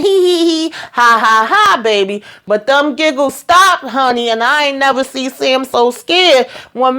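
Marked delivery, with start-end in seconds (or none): 0.0-2.2 high mocking giggle, hee hee then ha ha; mock giggling. Board members giggling at the old farmer, mock giggle. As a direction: giggle at him like the room did. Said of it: "And they all giggling".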